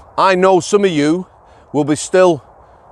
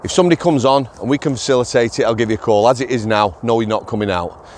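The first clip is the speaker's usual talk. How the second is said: lower-pitched, softening, civil explanation; polite; 5 semitones lower, faster than usual. Retold or imitated. Officer explaining to a prisoner he must wait, politely. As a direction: let him down politely and calmly.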